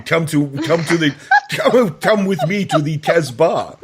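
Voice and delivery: put-on playful French seducer accent, laughing. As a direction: ham up a French romantic accent. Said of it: "I can't do French Canadian. that's all I can do".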